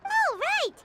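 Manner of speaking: surprised. Acted. Sudden relief at good news.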